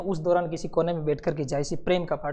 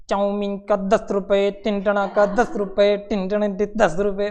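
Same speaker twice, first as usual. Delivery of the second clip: street vendor call; 4 dB louder, slower than usual. Retold or imitated. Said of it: "ऐसे कह देता है कि".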